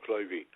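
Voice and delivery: Clivey said as KLY-vee, the end E voiced; Clivey with final E. Pele calling his agent by name, final E sounded. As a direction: stretch the ending of "Clivey" into a clear -ee. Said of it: "he always pronounced the E on the end of my first name".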